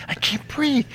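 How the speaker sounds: high, squeaky mock plea; comic high-pitched gasped protest; mock smothered victim. Squelched Lady Poole's voice, acted.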